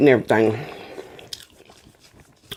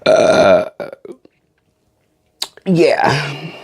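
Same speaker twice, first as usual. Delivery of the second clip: burp. Real, not acted. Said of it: "Had to get that out".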